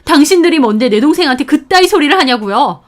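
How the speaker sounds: firm indignant defense climbing to a loud demand; loud protest. Acted. Sister standing up for her sibling, loud indignant protest. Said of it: "큰 소리로 따졌고".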